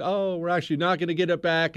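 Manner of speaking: imitating disappointed supporters; mock let-down. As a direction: act out hope deflating, still hurried. Acts out hopes being let down.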